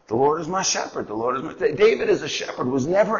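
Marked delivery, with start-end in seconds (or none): 0.1-1.5 quiet confident recital. Retold or imitated. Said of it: "and he says".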